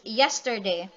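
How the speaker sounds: "yesterday" with the stress on YES; strong "yes", light "terday" in "yesterday"; falling meter. Shown as a demonstration. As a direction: hit the first syllable of "yesterday", then ease off. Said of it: "they move from stressed to unstressed".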